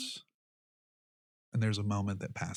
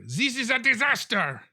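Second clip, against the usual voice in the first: upset mayor; 13 semitones higher, 6 dB louder than usual. Acted.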